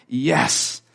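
gleeful wife. Retold or imitated. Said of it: "so she was like".

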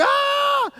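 long, high, loud scream; terrified mock scream. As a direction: scream as if startled by a spider. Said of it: "Screamed, like".

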